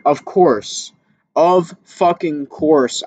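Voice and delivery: slow bitter "Of fucking course"; retold anger. To himself on facing the elite boxer, slow and bitter. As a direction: drag out the words in disgust. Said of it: "It made me really angry".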